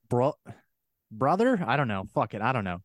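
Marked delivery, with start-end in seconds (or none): 0.1-0.4 mock Scottish accent. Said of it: "if some Scottish guy was like". 1.1-1.6 "brother" with a hard American R, higher; a botched Scottish "brother" with a hard R; a hint of Scottish, with the hard R left in; failed Scottish accent. Shown as a demonstration. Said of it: "There was a hard R on brother".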